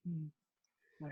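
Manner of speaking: soft, near-silent hum of awe; a hushed little hum, staring starstruck; awed hum. Retold or imitated. Starstruck fan staring at a celebrity, soft awed hum. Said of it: "I go".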